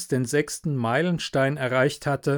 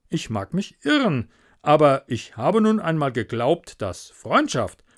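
a lightly voiced, self-pleased miller, loud on his own gain; the smug miller wheedling a favour; greedy miller; 3 semitones higher, 3 dB louder than usual. The miller to Hans about the plank, smug and wheedling.

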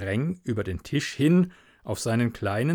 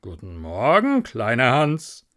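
patronising miller; 4 dB louder than usual. Acted. Miller greeting little Hans, patronising.

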